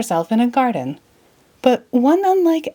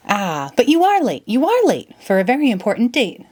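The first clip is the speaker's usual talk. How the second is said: lightly voiced anxious rabbit, a touch higher; a hint of a hurried rabbit tutting at her; fussy White Rabbit; 4 semitones higher than usual. White Rabbit at the door chiding Alice, lightly voiced fuss.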